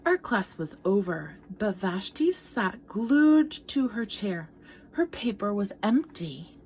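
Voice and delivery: gentle read-aloud storytelling; story narration. Acted. Teacher reading a picture book to children, storytelling voice. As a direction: tell it like a picture book to kids.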